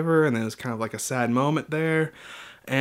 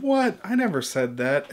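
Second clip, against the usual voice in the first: mock innocent denial; 4 semitones higher than usual.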